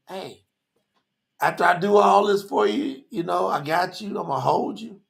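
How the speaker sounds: easy, gentle promise, not pounding; smooth reassurance. Acted. Yahuwah promising to hold his people, smooth and reassuring. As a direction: slide it in nice and smooth. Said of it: "He's sliding it in nice and smooth".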